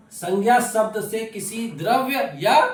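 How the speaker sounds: slow, loud, deliberate definition; emphatic dictation. Real, not acted. Teacher asking students to listen closely, emphatic dictation. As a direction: spell it out word group by word group.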